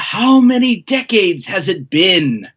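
slow, grand rival's greeting; hammed-up, slow Big Mom; drawn-out villain greeting. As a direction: stretch it out theatrically. Big Mom greets old crewmate.

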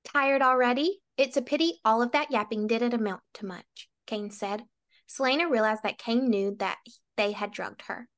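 measured read-aloud of a fantasy fight scene; lightly dramatic novel reading; story narration. A narrator's reading. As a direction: read it like an audiobook, phrase by phrase. Reads novel passage aloud.

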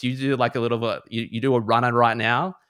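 mum warning. Retold or imitated. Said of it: "trying to calm her down and be like".

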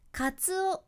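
カツオ said level with no pitch change; カツオ on one even pitch; flat pitch. Shown as a demonstration. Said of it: "しっかり音の高低差をつける".

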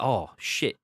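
ordinary talk

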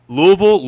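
Louisville said LOO-uh-vul; weak vowels in Louisville, LOO-uh-vul; quiz pronunciation option. Shown as a demonstration. Host repeats the choices, Louisville as LOO-uh-vul. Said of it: "How do you pronounce".

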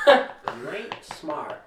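overdone, dragging country twang; attempted country accent. Shown as a demonstration. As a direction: badly copy a stretched country accent. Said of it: "trying to do a country accent".

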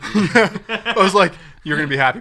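talking through laughter; laughing. Real, not acted. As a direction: laugh while you say it. Laughing while telling.

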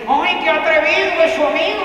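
mock the offended mother; indignant lady. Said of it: "si la señora dice".

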